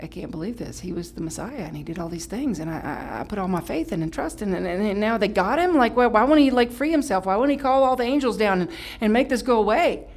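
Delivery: acted disbelief growing frantic; freaking out. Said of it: "they're freaking out".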